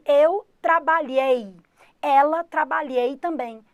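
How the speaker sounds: mock learner error. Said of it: "porque ele fala assim".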